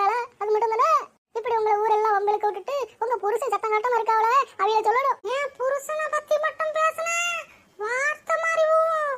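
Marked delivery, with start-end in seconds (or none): 5.3-9.1 slow, drawn-out threat; angry warning. Acted. Wife defending her husband from a neighbour's insults, threatening. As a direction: warn her off, stretching the words.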